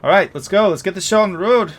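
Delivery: teasing, then calls out loudly to get going; playful npc, then loud. Acted. Rider jokes with Luthana, then calls out loudly to leave. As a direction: laugh it off, then rally everyone to leave. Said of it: "and says".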